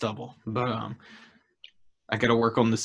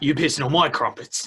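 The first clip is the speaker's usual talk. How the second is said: mock British accent. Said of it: "a far better accent".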